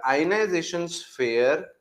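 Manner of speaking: each word spaced out for writing; slow dictation pace, word by word. Shown as a demonstration. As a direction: dictate slowly with long pauses. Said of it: "आप लोग भी लिखते हुए चलिएगा".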